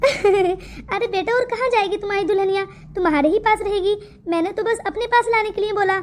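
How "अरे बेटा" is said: laughing. Acted. Mother laughs at joke.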